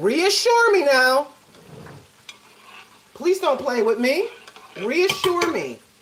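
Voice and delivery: furious, acted, high-pitched and swooping angry voice. Demanding that someone reassure you and not play with you, really angry. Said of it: "your girl got really angry".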